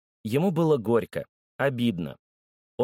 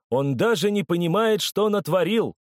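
excited exclamation; 7 semitones higher than usual. A narrator's reading. Fat man exclaiming to crowd.

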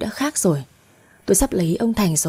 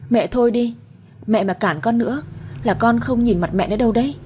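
a raised, sharp scolding at her mother; snapping at mother; 3 semitones higher than usual. Acted. Daughter snaps at her mother to stop her, raised voice. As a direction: shout her down so she stops objecting. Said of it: "Tôi quát mẹ".

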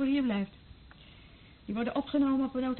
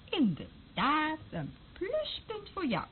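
drawn-out mock praise; 4 semitones higher, much slower than usual.

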